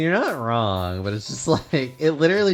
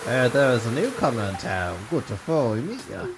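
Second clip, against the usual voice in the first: lightly voiced old sea dog; a hint of a salty sailor; gruff old fisherman. Voicing Willy the fisherman.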